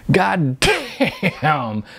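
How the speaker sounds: loud redneck shout. A narrator's reading. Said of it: "the loud guy shouted".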